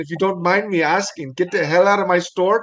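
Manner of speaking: a lighter hint of an Indian accent; Indian shopkeeper accent. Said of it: "That's one accent I can't get right is the, the Indians".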